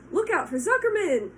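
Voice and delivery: loud, high gander warning; gander calling a warning. Acted. Gander warning Wilbur, high and loud. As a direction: call the warning out. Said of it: "called the gander".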